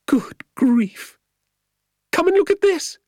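very high, loud astonished cry; calling out. A narrator's reading. Woman calling from inside the workshop, astonished shout. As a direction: call the others over in a high woman's voice. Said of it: "called from inside the workshop".

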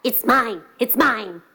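lightly voiced quarrelling dog; short doggy protests; growling dog. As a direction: snap it out like a possessive dog. Dog's turn among arguing animals.

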